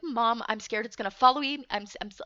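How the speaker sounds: retold scared plea, breaking into stammers; acted fright, tripping over itself; blubbering mess. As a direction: plead anxiously, then get stuck on the words. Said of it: "I was a fucking blubbering mess".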